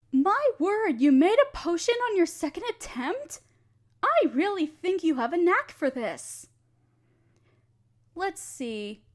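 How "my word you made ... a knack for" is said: high, surprised exclamation; higher-pitched delighted disbelief; amazed. Acted. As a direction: marvel at the student's quick potion. Amazed at quick success.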